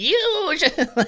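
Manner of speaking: put-on very high cartoon wise-old-man voice. Quoting what his grandpa always tells him, in an old cartoon wise man voice. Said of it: "some old wise man in a cartoon".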